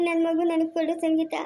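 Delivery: breaking into tears on the plea; crying plea. Acted. Father begging Sangeetha for his baby, in tears. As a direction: sob out the request.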